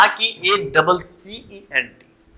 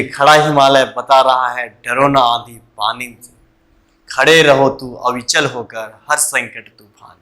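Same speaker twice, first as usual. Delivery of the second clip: low, measured verse; poem recitation; 5 semitones lower than usual. Acted. Teacher recalling a Himalaya poem for students, measured recitation. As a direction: recite the lines steadily in a lowered pitch.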